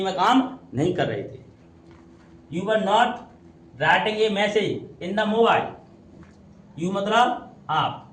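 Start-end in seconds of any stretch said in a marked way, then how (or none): 2.5-5.7 very slow, word by word; deliberate dictation pace; slow reading aloud. Shown as a demonstration. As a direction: read it out slowly for the class. Teacher reads sentence for class.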